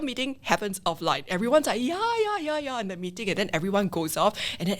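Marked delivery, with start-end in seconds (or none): 1.9-2.8 sing-song yes-man agreeing along; mock agreement. Everyone nodding along in the meeting, mock agreement.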